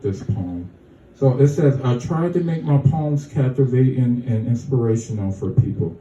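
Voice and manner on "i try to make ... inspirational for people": even, measured read of a personal statement; steady reading, phrase by phrase; reading a statement aloud. Acted. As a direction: read your written words out sincerely. Reads written statement aloud.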